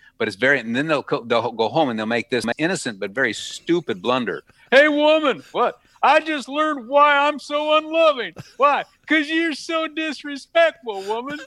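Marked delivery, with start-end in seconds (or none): 4.7-11.4 put-on Southern accent, pitched way up. Acting out a man at home scolding a woman, in a Southern accent. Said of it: "Southern accent".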